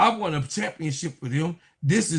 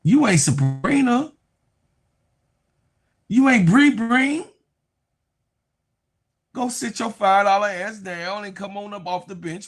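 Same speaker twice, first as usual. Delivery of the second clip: mock yelling Stewie; 4 semitones higher, 3 dB louder than usual. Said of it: "Stewie was like".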